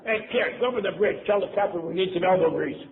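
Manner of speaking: lightly hammed-up order; calling out orders. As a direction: imitate a crewman sending the kid running. Second fool's errand called out.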